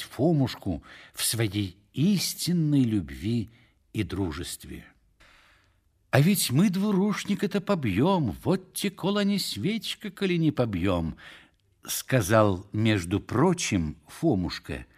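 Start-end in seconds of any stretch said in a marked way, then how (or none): 6.1-11.2 high-pitched swaggering tipsy boast; boastful vow. A narrator's reading. Фомушка bangs the table among drinking companions, boastful vow. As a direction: swear it over drinks, voice pitched up. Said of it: "ударив кулаком по столу".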